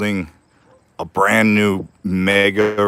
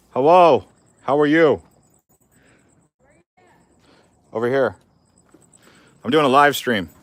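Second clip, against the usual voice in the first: raised, higher voice across the yard; calling to neighbor; 7 semitones higher, 5 dB louder than usual. Real, not acted. Greeting the neighbor over the fence, loud and high. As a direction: call out to be heard at a distance.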